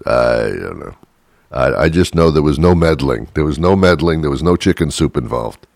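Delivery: a hint of Trump denying; evasive Trump. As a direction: dodge the question like Trump. Trump voiced answering Congress.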